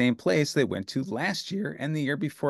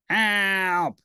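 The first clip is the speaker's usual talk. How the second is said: cry for help; 7 semitones higher, 6 dB louder than usual. Acted. Bert cries out.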